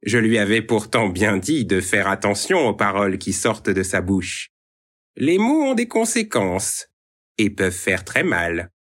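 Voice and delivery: sneering. Acted. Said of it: "répondit en ricanant".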